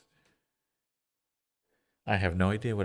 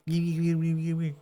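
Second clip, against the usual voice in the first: greedy gimme; 10 semitones higher, 4 dB louder than usual. Acted. Grabbing at the banana.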